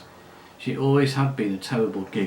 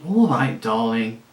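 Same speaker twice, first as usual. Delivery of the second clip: lazy voice; 5 dB louder, slower than usual. Acted. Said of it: "in her lazy voice".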